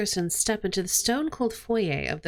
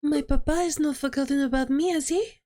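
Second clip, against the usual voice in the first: lightly voiced young lady, a touch higher; young girl Cataline; 5 semitones higher than usual. Young Cataline greeting the lawyers, lightly higher voice. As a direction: play the sweet noblewoman gently lifted.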